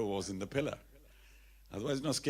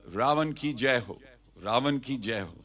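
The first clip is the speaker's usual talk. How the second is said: acted hail; 7 dB louder than usual. Disguised Hanuman hails Ravan.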